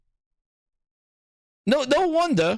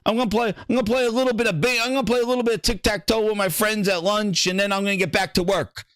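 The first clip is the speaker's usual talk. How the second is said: mock casual gamer; 5 semitones lower than usual. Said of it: "you know".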